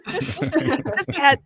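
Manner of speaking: a hint of a Swiss host joking; mock Swiss accent, giggling. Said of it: "I can't do the accent".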